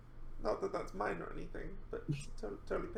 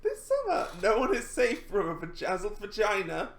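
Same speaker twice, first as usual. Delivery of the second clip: horror trailer voice; 5 dB louder than usual. Acted. Reading horror trailer card.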